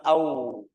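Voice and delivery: AU drawn into a rounded U. Shown as a demonstration. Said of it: "munyungnya kayak lebih".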